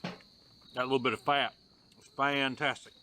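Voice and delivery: talking with a mouth full of food; chewing while talking. Real, not acted. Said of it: "I'm gonna talk with my mouth full".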